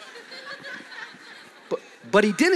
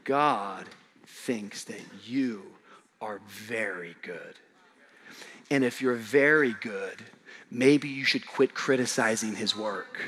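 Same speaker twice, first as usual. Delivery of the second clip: much lower and softer, slow; tender preaching; 9 semitones lower, 7 dB quieter, slower than usual. Acted. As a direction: speak it gently into each heart. Intimate tender sermon passage.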